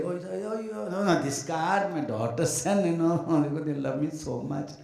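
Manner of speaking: hint of a fake modest father; mock casual. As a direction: play down the card while showing it off. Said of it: "They're very casually say".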